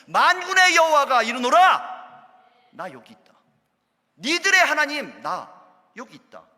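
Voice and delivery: full-force preaching climax; climactic proclamation. Acted. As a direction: thunder out that God is here. Climactic voicing of God.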